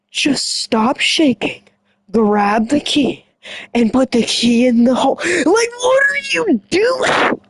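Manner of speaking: high, cracking shout at the screen; exasperated yell. Real, not acted. Viewer yelling at a horror movie character, high cracking shout.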